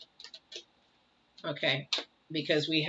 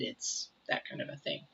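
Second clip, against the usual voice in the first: whispered aside; 10 dB quieter than usual. Real, not acted. Aside to viewers about mess.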